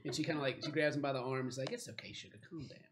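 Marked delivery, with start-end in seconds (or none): 1.7-2.8 whispered, much softer soothing. Acted. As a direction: hush him gently like calming a child. Stephanie soothing the nerd.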